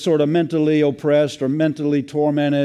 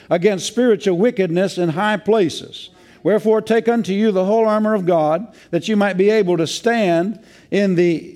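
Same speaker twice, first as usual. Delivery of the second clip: raised, ringing Bible reading voice; scripture reading; 3 semitones higher than usual. Acted. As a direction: read the verses out like a proclamation. Reads Ephesians six aloud.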